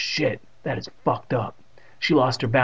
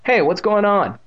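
high, loud call from afar; raised voice, pitched up to carry; crying out; 9 semitones higher, 6 dB louder than usual. A narrator's reading. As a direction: call out sharply to interrupt. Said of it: "a voice cried out from down".

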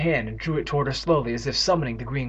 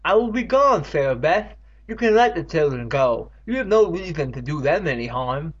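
furious; 4 semitones higher, 4 dB louder than usual. Acted. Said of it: "eyes filled with fury".

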